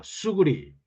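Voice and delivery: a sparrow hurriedly warns its friend, in Gyeongsang dialect; urgent Gyeongsang call. A narrator's reading. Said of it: "경상도 참새가 급히 외쳤습니다".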